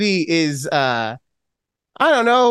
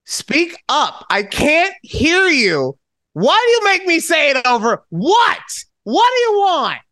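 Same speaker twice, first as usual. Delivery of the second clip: mock yelling dad; 10 semitones higher than usual. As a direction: bark it like a deaf old dad. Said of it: "He'll be".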